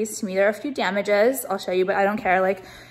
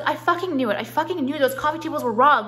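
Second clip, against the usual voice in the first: self vindicated; 3 semitones higher than usual. Retold or imitated. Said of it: "So I was like".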